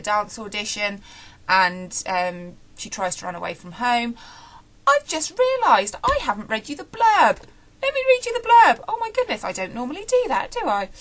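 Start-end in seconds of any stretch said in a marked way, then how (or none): 4.9-9.4 high, loud flustered gasp of realisation; sudden realisation. Real, not acted. Reviewer to viewers, realising she skipped the blurb, flustered and high. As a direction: catch yourself forgetting something, much higher.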